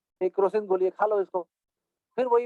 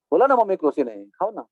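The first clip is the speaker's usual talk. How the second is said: irritated son. Retold or imitated. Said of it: "तीन ही बार में पक गया वो".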